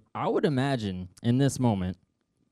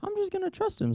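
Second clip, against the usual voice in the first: hesitant Peter. Acted. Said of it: "you're like".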